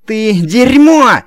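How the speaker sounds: очень громко, высоко, медленно; завизжать в ярости; визгливый крик. A narrator's reading. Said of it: "визгливо закричал". (Динелли-младший визжит на охранника)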